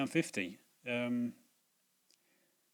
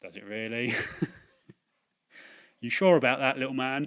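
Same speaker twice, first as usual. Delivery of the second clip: sceptical; 4 dB louder than usual. Retold or imitated. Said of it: "I'm thinking".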